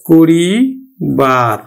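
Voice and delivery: করিবার said very slowly, কো-রি-বার; drawn out by syllable. Shown as a demonstration. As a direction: stretch করিবার, pausing before বার. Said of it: "সাধু হলো করিবার". (ধীরে ভেঙে করিবার উচ্চারণ)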